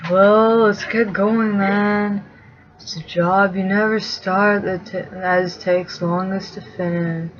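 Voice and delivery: soft, very slow stoner drawl; lazy and unhurried; stoner Sam. Acted. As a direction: Sam eager but stoned. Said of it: "we're pretty sure Sam is".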